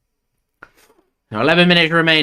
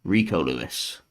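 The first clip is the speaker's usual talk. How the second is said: Rico Lewis, lower and softer, lingering with a falling end; savouring the name; 7 semitones lower, 5 dB quieter than usual. Shown as a demonstration. Fan who loves the name savours it, low and soft. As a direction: relish saying Rico Lewis like a treat. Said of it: "I just love saying Rico Lewis's name".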